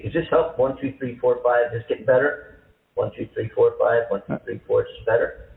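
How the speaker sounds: mic check, leaning in close; leaning into the mic, counting. Real, not acted. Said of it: "you're kind of faint".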